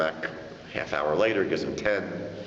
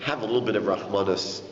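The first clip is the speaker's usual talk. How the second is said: pleading; 3 semitones lower than usual. Retold or imitated. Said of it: "he starts begging".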